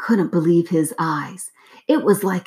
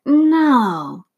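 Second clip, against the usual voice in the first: high anguished no; crying out; 7 semitones higher, 4 dB louder than usual. A narrator's reading. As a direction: wail it in dismay. Dismay at the keyhole.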